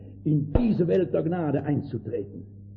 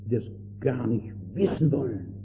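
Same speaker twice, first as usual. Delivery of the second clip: langsam, mit Tränen in der Stimme; weinerlich bewegt; 4 semitones lower than usual. Real, not acted. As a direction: echte Sorge bricht durch. Prediger bewegt über Verlorene. (langsam und bewegt, den Tränen nah)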